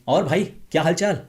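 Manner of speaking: loud, high-pitched greeting to a friend. Shown as a demonstration. A speaker showing an overexcited friend greeting in high pitch. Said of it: "आपको high pitch पकड़ने की ज़रूरत नहीं है".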